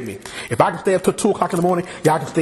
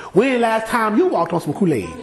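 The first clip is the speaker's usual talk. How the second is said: teasing scold, half laughing; mock chiding; 4 semitones higher than usual. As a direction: poke fun at Peter. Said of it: "while we chide Peter".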